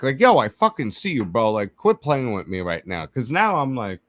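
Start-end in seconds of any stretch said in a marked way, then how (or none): 0.2-3.1 a mild yell of warning at an unseen prankster; calling out. Retold or imitated. Calling to the figure by the trees, a raised mock yell. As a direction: call out, fed up with being played.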